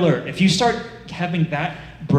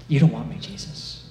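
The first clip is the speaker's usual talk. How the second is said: trailing off to a near-whisper; acted dejection; 2 semitones lower than usual. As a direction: let the last word sink away, unworthy. Acts ashamed person refusing Jesus.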